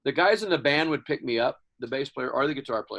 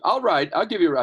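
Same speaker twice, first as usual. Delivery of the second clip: insisting dad; 7 semitones higher, 9 dB louder, faster than usual. Retold or imitated. Dad insisting in retold story.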